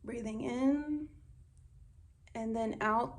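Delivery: unhurried breathing instruction; guided breathing. Shown as a demonstration. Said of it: "show you one".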